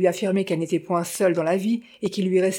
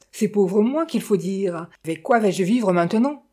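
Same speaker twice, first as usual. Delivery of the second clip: self-pitying outburst. Acted. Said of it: "éclata madame Montparnault".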